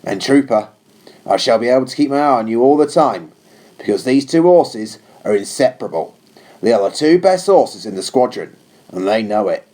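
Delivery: lightly voiced captain, firm but unsympathetic; a hint of a stern officer giving orders; captain to a new trooper, firm and cool. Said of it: "His tone was firm but unsympathetic".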